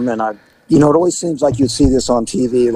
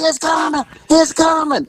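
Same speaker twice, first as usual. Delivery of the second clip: booming voice; 14 semitones higher than usual. Retold or imitated. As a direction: stretch each word out from upstairs. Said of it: "And she's going".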